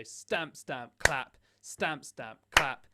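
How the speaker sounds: rhythmic count of the beat; spoken percussion pattern, steady. Shown as a demonstration. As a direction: say each word evenly on the beat. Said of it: "There's no off beat".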